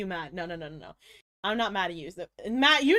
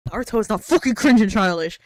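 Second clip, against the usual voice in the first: loud indignant outburst; outraged shout; 2 semitones lower, 7 dB louder than usual. Real, not acted. Streamer rebuts a chatter's insult to Naruto, outraged and loud. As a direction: fire it back, outraged and loud.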